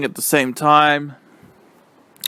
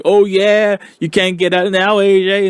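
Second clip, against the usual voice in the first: gloating taunt; 5 semitones higher, 3 dB louder than usual. Retold or imitated. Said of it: "Otis was like".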